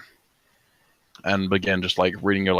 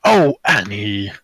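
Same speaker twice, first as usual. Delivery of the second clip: slow, crying-laugh granny voice; mock grandmother; 5 dB louder, much slower than usual. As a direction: coo it like an old granny, through laughter. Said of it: "like two grandmothers".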